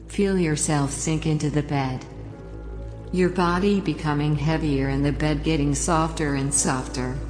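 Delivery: calm, unhurried relaxation guide voice; sleep story narrator. Acted. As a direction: guide the listener down into the bed. Leads a relaxation induction.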